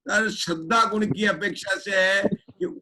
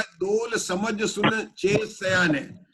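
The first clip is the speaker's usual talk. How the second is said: verse recitation; slower than usual. Shown as a demonstration.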